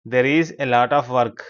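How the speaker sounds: slow, connected teacher's reading; model sentence. Shown as a demonstration. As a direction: read it slowly as one phrase for learners.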